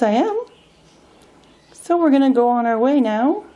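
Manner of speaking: bright, coaxing pet talk. Real, not acted. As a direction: cheer the bird up about its new home. Talking to her bird Passion.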